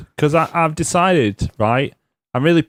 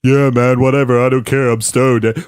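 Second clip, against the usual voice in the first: stoned Matt Riddle; slower than usual. Retold or imitated. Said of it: "this is Matt Riddle. I'm stoned".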